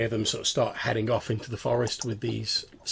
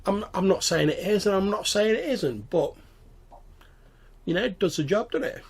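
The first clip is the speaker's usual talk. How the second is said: higher-pitched goblin voice, non-committal; hedging goblin; 10 semitones higher, 4 dB louder than usual. Acted. Goblin dodging the squire's question about the door, hedging. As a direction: hedge it in a high goblin voice.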